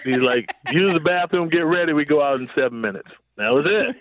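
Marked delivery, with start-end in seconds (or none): 0.7-3.1 plain, businesslike instructions; matter-of-fact. Retold or imitated. Coach sending losing players back out, matter-of-fact. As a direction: imitate a coach stating the plan without fuss. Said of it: "Was very matter of fact".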